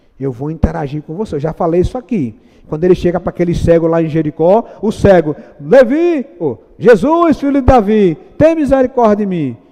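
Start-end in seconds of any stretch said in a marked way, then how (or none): 6.4-9.5 acted-out desperate, pleading shout, crying out. Speaker retells the blind man at Jericho crying out to Jesus, acting out a blind man shouting. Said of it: "e gritando, e gritando, e gritando".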